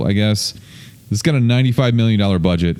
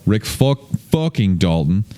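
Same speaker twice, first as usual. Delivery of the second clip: weak Southern drawl on the name; a failed stab at a Southern accent; slower than usual. Retold or imitated. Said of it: "I can't do a Southern accent".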